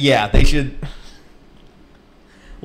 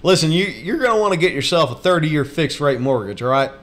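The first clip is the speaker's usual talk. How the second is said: lightly imitated money-advice host; Dave Ramsey; 2 semitones higher than usual. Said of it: "That's Dave Ramsey".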